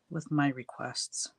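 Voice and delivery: requests drawn out slowly and leaned on; stress on requests. Shown as a demonstration. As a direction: lean on requests with a knowing tease. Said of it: "Notice how I say requests".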